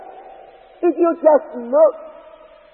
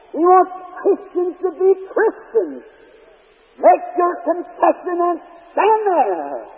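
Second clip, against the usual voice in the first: slow, emphatic exhortation, pitched up; fervent preaching. Real, not acted. Preacher urging Christians to keep their conviction, fervent exhortation. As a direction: press each charge home with drawn-out stresses. Exhorts believers to stand firm.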